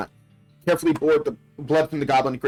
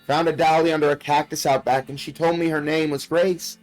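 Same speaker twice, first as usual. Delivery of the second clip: lightly voiced young girl, a bit higher; little girl voice; 3 semitones higher than usual. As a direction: read it like a frightened child's diary. Reads little girl's diary aloud.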